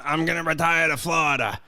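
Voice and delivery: a light New York mafia accent, imitating a retiring mobster; mock mobster accent. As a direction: ham up a New York mob guy accent, but lightly. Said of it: "a terrible accent".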